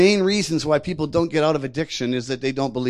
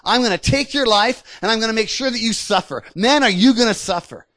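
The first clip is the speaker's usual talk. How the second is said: higher, pressing threats of a bully; intimidating giant; 6 semitones higher, 4 dB louder than usual. Acted. Enemy giant threatening the sick with suffering, intimidating. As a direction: threaten with relish, voice raised in pitch. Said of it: "that's how he talks".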